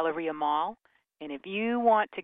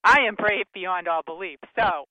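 quoting Steve Parsons; 6 dB louder than usual. Retold or imitated. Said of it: "as Steve Parsons would say".

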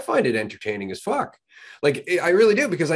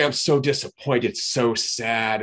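mock disappointment; much slower than usual. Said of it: "has the audacity to get back to me and go".

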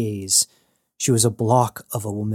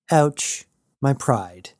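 dry, mock hurt; understated fake wound; deadpan; 3 semitones higher, much slower than usual. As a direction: Jazz brushing off Gerta's jab, deadpan. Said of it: "Jazz responded deadpan".

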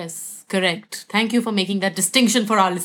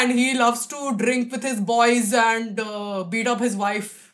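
patriarchal guy voice; slower than usual. Shown as a demonstration. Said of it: "channeling some kind of a patriarchal douchebag".

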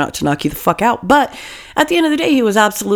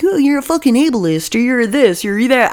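higher-pitched mock accuser; put-on scolding in a raised pitch; mock outrage; 4 semitones higher than usual. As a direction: imitate an indignant critic. Mimicking outraged critics' accusations.

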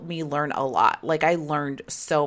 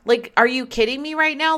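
higher, pushed disbelief, hit "right"; incredulous retort; 9 semitones higher, 4 dB louder than usual. Retold or imitated. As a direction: ask it outraged, leaning on "right". Retold clash with her boss.

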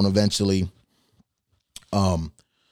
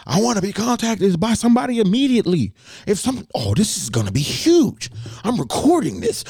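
high mock falsetto threatening to go public; shrill it out like an outraged lady; screaming customer; 12 semitones higher than usual. Caller threatening to post the video, in a high mock falsetto. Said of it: "screaming on the phone".

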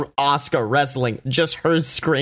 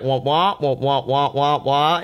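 Peanuts teacher drone. Retold or imitated. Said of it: "the teacher in Peanuts".

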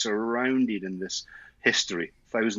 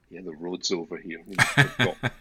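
laughing; 4 dB louder than usual. Real, not acted. Laughs while praising the roads.

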